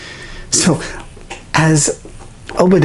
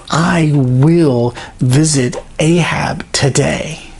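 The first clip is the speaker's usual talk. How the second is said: whisper; much slower than usual. Acted. Elijah takes a solemn oath.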